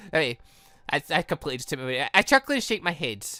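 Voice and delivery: ordinary delivery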